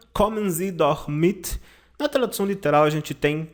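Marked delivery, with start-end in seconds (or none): 0.1-1.6 slow German phrase rising at the end; slow model sentence ending on a rise; slow example sentence. Shown as a demonstration. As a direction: read it slowly, lifting at the end. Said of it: "Aqui nós temos o verbo mitkommen".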